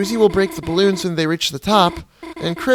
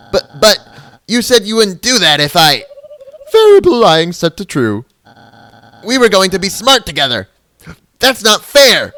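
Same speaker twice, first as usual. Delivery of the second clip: pleading; 5 semitones higher, 8 dB louder than usual. Acted. Noelle pleading.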